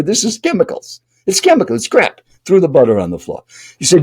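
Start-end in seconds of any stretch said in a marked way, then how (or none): 0.0-2.2 high-pitched mock rant, no real volume; imitated yelling. Stranger rejects the butter on the tray, high mock yelling. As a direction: imitate a worked-up food crank, pitched up. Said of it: "He's kinda yelling at you".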